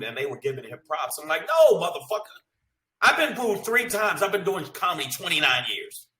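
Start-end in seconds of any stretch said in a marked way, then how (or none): 1.5-6.1 loud, furious rebuttal, pitch up high; angry retort. Retold or imitated. Comic ranting back at industry people, furious shout.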